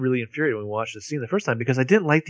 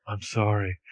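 mock whisper; 4 semitones lower, 7 dB quieter, slower than usual.

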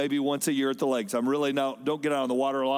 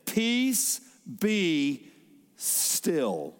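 commanding calm; much slower than usual. Retold or imitated. Jesus speaking to wind and sea, rising then sinking into hush.

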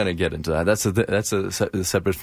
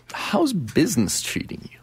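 whispering; 8 semitones higher than usual. Acted. Host whispers question to guest.

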